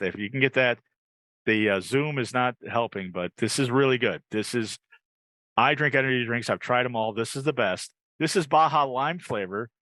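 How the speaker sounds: upbeat host selling a drink; live ad read. Acted. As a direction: pitch it like a live commercial.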